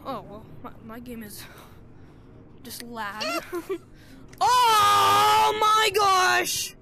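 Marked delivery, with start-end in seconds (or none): 3.5-6.8 laughing while being tickled; squealing through tickles. Real, not acted. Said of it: "stop tickling me".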